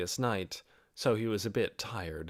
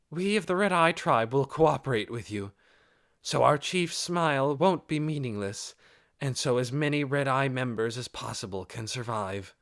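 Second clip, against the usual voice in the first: lightly voiced female lizardman, earnest and a bit higher; Krush pledging; 4 semitones higher than usual. Krush declaring her tribe will cooperate, earnest resolve. Krush gives formal decision.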